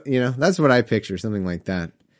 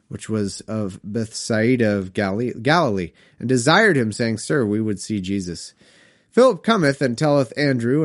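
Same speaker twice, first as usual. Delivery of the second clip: put-on measured read-aloud of old Bible verse; scripture reading. A narrator's reading. Reads scripture aloud between comments.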